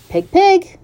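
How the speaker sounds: high-pitched coaxing call; kind voice. A narrator's reading. Farmer luring the pig along, kind high coaxing. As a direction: coax an animal kindly, voice lifting high. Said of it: "in a kind voice".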